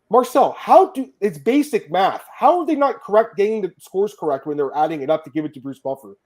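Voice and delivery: loud, high-pitched incredulous outburst; exasperated disbelief. Real, not acted. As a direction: protest it as if the mistake is absurd. Baffled by judges' wrong score totals.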